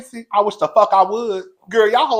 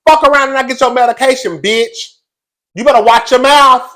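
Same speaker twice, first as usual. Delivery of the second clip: mock warning; 5 semitones higher, 7 dB louder than usual. Scolding Robin's man directly.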